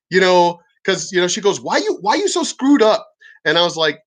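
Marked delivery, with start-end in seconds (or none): 1.6-3.1 high, mock broken-English pharmacist asking why; imitating broken English. Pharmacist asking the veteran why, in imitated broken English. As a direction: mimic her broken English, pitched up. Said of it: "she spoke really broken English".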